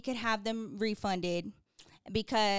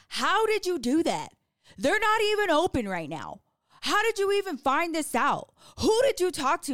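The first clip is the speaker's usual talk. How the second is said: retold astonishment, high and loud; incredulous; 6 semitones higher, 5 dB louder than usual. Wife mimics husband's surprise at her fix, incredulous.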